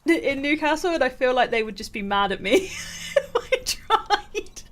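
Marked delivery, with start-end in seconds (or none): 2.5-4.6 words breaking into a laugh; amused, giggling as it trails out. Real, not acted. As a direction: laugh through the end of the sentence. Laughs at own accent attempt.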